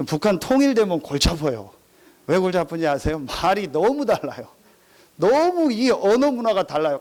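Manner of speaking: ordinary delivery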